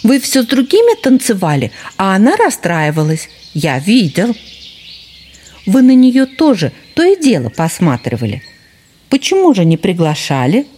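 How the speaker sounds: put-on high, pushy young fox cub; cheeky fox cub. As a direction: press him, high and eager. Fox cub keeps talking.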